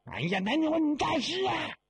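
high frightened yell; panicked shout. Acted. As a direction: shout it high while fleeing. Mourner running away.

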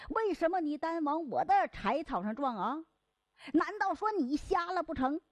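second porter snapping back; quarrelling back. Acted. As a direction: throw the blame right back. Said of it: "这两个人就吵起来了".

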